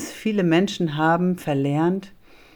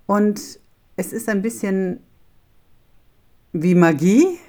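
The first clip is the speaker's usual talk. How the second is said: whispering; 2 semitones higher, 3 dB louder than usual. Real, not acted. Whispered build-up to magic.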